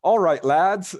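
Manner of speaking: high, loud cheery call-out; mock shout to the lads; retold shout. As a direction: imitate hailing a group across a room. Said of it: "So he just shouts out".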